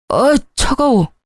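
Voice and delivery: high, slow shocked gasp of a word; husband drenched awake, crying out in shock; startled yelp at cold water. Acted. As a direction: jolt up in pitch as the cold water hits.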